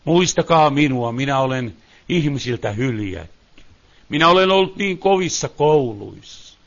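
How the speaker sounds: low, soft, grave sermon delivery; hushed preaching. Real, not acted. Preacher speaks for God's struggling children, hushed preaching. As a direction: preach quietly and low, building slightly.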